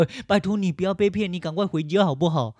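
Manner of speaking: high, begging mock tone; sarcastic imitation of rescuers pleading. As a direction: beg like a kneeling rescuer. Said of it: "还要跪着你说".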